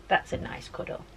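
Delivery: breathy whisper of contentment. Real, not acted. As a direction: whisper it into the dog's fur. Whispering while cuddling dog.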